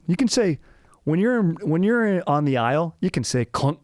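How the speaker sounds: high mock-Scottish explaining; Scottish accent. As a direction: explain it in a hammed-up Scottish brogue. Stays in the Scottish character.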